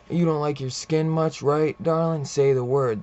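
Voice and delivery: retold taunt, punched up loud; taunting threat. Threatening the hunter he calls darling, taunting.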